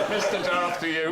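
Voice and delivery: drawled West Country Mister Darth; laughing yokel Vader; West Country accent. Retold or imitated. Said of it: "West Country accent".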